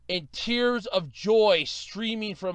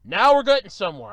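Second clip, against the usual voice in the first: retold relief; 2 semitones higher, 7 dB louder than usual. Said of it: "I'm like".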